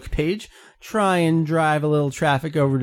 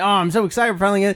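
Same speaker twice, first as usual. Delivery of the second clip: mock excitement; 6 semitones higher, much faster than usual.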